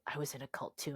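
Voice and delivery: low, hushed admission; imitated confiding. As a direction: confess it under your breath. Retold stranger confiding in her.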